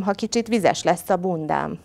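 plain reading voice

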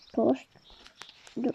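breathy frightened whisper; hushed scared murmur. Pretend. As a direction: whisper it as if afraid to be heard. Scared whisper in haunted house.

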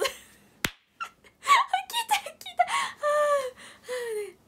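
high, breathless laughing; laughing hard. Real, not acted. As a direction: squeak it out mid-laugh. Still laughing.

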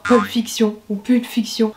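English title in a thick French accent. Shown as a demonstration. Vlogger showing off her franglais, French accent. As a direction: pronounce the film title as if French. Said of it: "avec un accent bien français".

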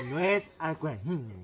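slow, careful mock correction; mock gangoso. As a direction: lightly imitate the gangoso correcting. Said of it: "le dice".

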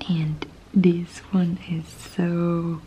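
hushed unboxing whisper. Real, not acted. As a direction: breathe the words close to the mic.

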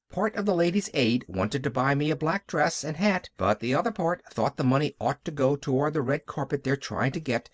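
lightly voiced chattering little girl; Pollyanna. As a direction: ramble on with a hint of an earnest child. Child Pollyanna chattering in a story.

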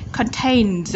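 "Contains" with a buzzed final Z; Z ending sound. Shown as a demonstration. Teacher modelling ending sounds, buzzed final Z. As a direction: finish "Contains" on a clear Z. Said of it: "Z ending sound".

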